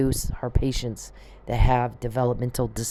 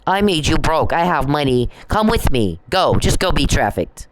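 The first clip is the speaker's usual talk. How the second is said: mocking imitation; 3 semitones higher, 4 dB louder than usual. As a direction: throw his words back, raised and forceful. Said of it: "He actually does that".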